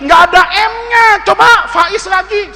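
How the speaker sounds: high, baffled correction; startled teacher. Acted. Shocked teacher correcting a pupil, high startled voice. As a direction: jump up in pitch, taken aback. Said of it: "gurunya kaget".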